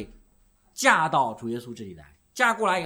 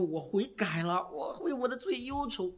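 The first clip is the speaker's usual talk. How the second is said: mock penitent; 9 semitones higher, 4 dB quieter, slower than usual. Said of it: "你说".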